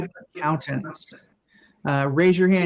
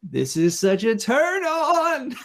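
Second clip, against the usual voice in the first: whisper; 7 semitones higher than usual. Acted. Comic seductive aside.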